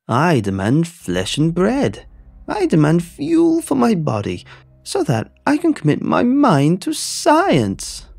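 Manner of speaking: shrieking Egghead. Acted. The egg monster shrieking his demands at Teddy. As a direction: shriek your demands like a mad egg creature. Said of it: "The creature shrieked".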